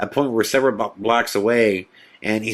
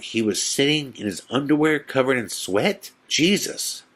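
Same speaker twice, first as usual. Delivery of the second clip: higher, questioning retold disbelief; incredulous echo; 5 semitones higher than usual. Friend hearing a bizarre report, repeating it incredulously. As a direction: repeat it back as if unbelievable. Reacting to Frankie's strange report.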